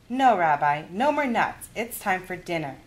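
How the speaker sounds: put-on kindly old granny offering a game; Baba Bryna's voice. Baba refuses more nuts.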